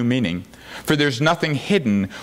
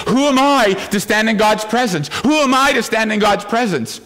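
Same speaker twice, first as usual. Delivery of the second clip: anxious question; 7 semitones higher than usual. Retold or imitated. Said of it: "we may think".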